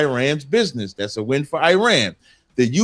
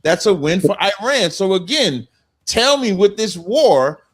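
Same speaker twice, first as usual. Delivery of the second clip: heated, voice climbing higher; getting emotional; 5 semitones higher than usual. Real, not acted. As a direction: rattle it off, worked up and rising. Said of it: "Getting a little emotional there".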